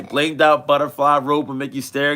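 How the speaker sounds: dad models the clear lyric for his son; clear demo. Shown as a demonstration. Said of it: "I wanna hear you say".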